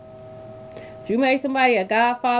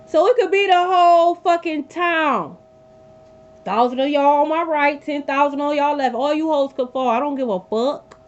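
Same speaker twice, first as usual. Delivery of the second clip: louder, slowed and cutting; defiant rant; 3 semitones higher, 4 dB louder than usual. Real, not acted. Reader defying hometown trolls, loud and scornful. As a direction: throw it at the haters.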